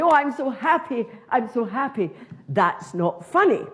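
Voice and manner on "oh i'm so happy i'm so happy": mock happy. Pal on a lovely day.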